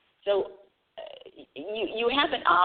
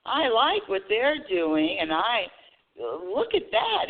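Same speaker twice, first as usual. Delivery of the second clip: admiring; 3 semitones higher, much slower than usual. Pretend.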